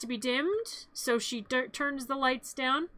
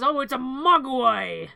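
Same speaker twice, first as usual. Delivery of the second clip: slow, louder drawn-out announcement; mock wonder; 7 dB louder, slower than usual. Dad reveals the creature he bought, mock wonder. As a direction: stretch it out in pretend awe.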